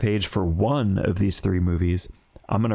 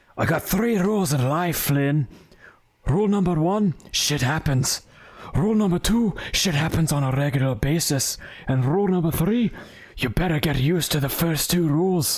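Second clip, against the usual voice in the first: put-on Scottish accent, pitched up; 7 semitones higher than usual. Reading a movie quote aloud in a put-on Scottish Viking accent. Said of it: "I wanted to do an accent of some sort".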